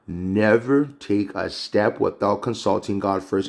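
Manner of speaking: slow, deliberate "Never take a step"; emphatic repeat. Real, not acted.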